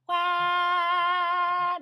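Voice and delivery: high, loud wide "Wah!"; wide Joker-mouth wah. Shown as a demonstration. Coach demos the wide mouth shape, loud. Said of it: "like the Joker".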